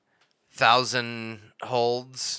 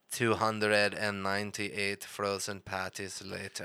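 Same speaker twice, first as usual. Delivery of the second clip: slow, low, softer narrator; time-card narrator; 3 semitones lower, 6 dB quieter than usual. Retold or imitated. Narrator announcing the time jump, slow low mock narration. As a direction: intone it slowly like a cartoon caption. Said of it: "and then we get".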